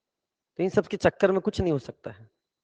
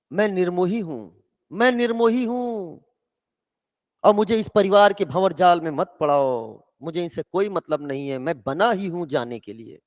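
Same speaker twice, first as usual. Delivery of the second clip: detached renouncer. Acted. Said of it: "कहता है".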